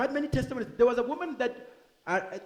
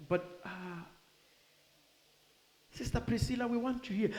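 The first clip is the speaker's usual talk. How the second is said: heaven calling her home; 6 dB quieter than usual. Pretend. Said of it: "in heaven, they're like".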